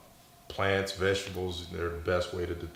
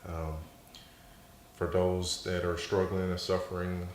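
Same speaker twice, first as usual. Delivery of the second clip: prayer. Acted. Prays for the audience.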